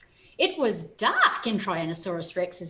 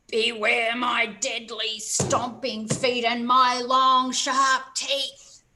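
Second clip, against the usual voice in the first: slow growling dinosaur boast; T. rex roar; 3 dB louder, slower than usual. Acted. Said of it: "roared again".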